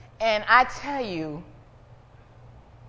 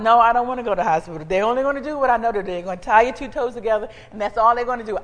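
fast indignant refusal; 7 dB louder, faster than usual. Retold or imitated. Her refusal retold.

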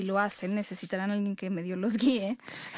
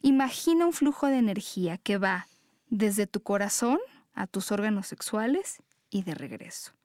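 guided meditation. Acted. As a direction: guide them gently into their breath.

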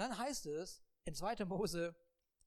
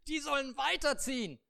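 loud, higher command; God commanding; 6 semitones higher, 5 dB louder than usual. Acted. God commands Moses the people must move on. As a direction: order it firmly.

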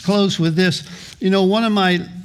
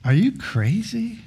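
mock incredulous retort. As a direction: act out his teen self's scoffing disbelief. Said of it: "I'd go".

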